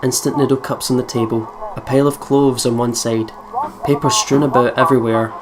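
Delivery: calm first-person narration; story narration. A narrator's reading. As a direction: read it like a diary-style visual novel.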